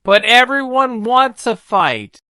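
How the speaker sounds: a hint of a cheerful knight; George's voice. A narrator's reading. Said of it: "said George".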